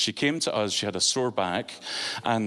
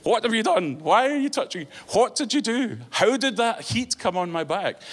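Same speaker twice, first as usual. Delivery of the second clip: high, louder, imitating a panicked scream; retold scream; 10 semitones higher, 4 dB louder than usual. Preacher imitating the Wiccan woman screaming about heat on her back. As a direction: voice the woman shrieking in shock. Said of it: "she started screaming really loudly".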